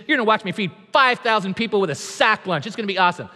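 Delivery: mock-excited, selling the trip; hyped-up sales pitch. Imagined Jesus overselling the journey, mock excited. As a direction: pitch "let's go to the other side" like a hyped tour guide. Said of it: "He doesn't say any of that".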